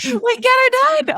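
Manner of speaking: high, slow, exaggerated Canadian drawl; Canadian accent. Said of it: "My Canadian accent".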